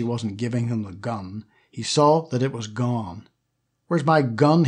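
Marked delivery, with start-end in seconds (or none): 3.9-4.7 angry shout. Acted. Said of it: "he shouted".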